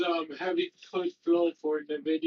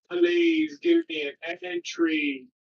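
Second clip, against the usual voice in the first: pleading; 10 semitones higher, 6 dB louder, slower than usual. Real, not acted. Begging the stock for an entry.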